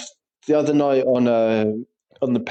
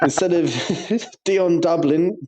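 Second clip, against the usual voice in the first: laughing; 4 semitones higher, slower than usual. Real, not acted. Laughing over pun.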